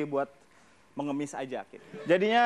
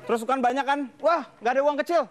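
beggar haggling; 5 semitones higher, 3 dB louder than usual. Retold or imitated. Beggar voiced haggling with tourist.

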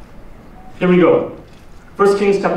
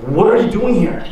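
sharp confrontational "What are you doing here?"; accusing; 4 semitones higher than usual. Shown as a demonstration. Preacher demos an angry challenge, sharper. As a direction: demand it like catching someone out. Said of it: "But rather it's".

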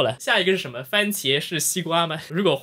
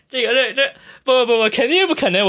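loud, high flustered protest; panicked no-no-no; loud rattled disbelief; alarmed; 7 semitones higher, 4 dB louder than usual. Real, not acted. Alarmed at 超级女人.

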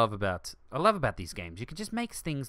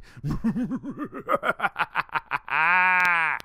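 loud, high mock villain cackle; spooky laugh attempt; 6 semitones higher, 6 dB louder than usual. Shown as a demonstration. Player trying a spooky laugh for the park, loud cackle. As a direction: cackle like a cheesy haunted house ghost. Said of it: "That was my attempt at a spooky laugh".

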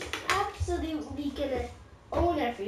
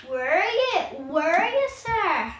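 calling out; 5 semitones higher, 6 dB louder than usual. Real, not acted. Calling out in game.

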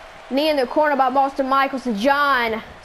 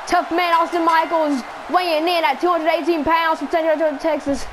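ring announcer voice; 3 semitones higher than usual. Pretend. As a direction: announce him to the arena. Announcing wrestler's ring entrance.

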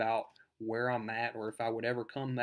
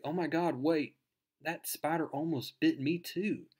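higher-pitched imitation of a stunned girl; mock amazement; 4 semitones higher than usual. Girl learns her friend's spider secret, amazed. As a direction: act out a sudden astonished realization.

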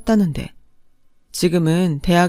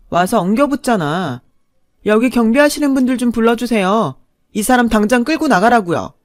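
higher, cutting defiance; defiant anger; 3 semitones higher than usual. Acted. Wife calling security on her ex-husband, defiant. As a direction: throw him out.

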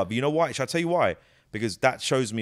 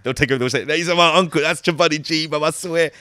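loud, higher-pitched London Asian lad; Hounslow Asian fan; 3 semitones higher, 5 dB louder, faster than usual. Retold or imitated. Asian fan claiming his uncle is the original, loud insistent imitation. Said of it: "An Asian from Hounslow will come up".

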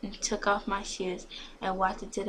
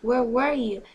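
loud, raised scolding; dad yelling; 4 semitones higher, 5 dB louder than usual. A narrator's reading. Dad yells about the time, angry scolding. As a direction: scold loudly with a higher voice. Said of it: "he yelled".

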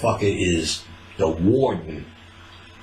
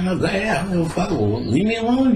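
mock dismissive; 9 semitones higher, faster than usual. Acted brushing her off.

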